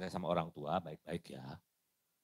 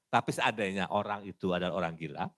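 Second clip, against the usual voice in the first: ordinary talk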